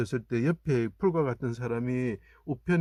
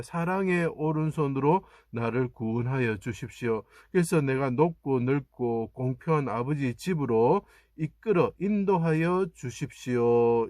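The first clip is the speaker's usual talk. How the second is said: building plea; 2 semitones higher, slower than usual. Acted. Preacher voices Jesus praying.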